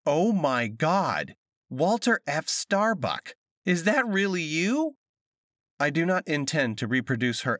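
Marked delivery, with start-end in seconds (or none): 0.1-5.0 high, drawn-out cry of astonished recognition; loud piercing cry. A narrator's reading. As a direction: cry out slowly as a shrill shopping bag lady. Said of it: "voice was loud and piercing, cried out".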